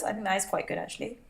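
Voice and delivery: hiccups breaking the words; hiccuping while eating. Real, not acted. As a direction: talk through hiccups. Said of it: "Sorry, I'm hiccuping again".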